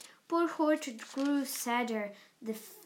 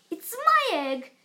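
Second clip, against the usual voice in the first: stuttered; 8 semitones higher, 7 dB louder than usual. A narrator's reading.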